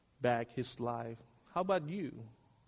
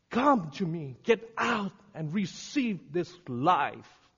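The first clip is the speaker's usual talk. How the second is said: usual speaking voice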